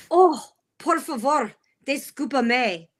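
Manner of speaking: slow and theatrical, imitating a learner; mock apology. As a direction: draw out a mock-polite Spanish apology. Imitates husband's slow practised Spanish apology.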